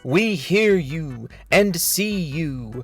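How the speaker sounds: overwrought, mock-solemn reading of a statement; dramatic reading. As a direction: read it like a grand, self-important speech. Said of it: "This is a dramatic reading of his thread".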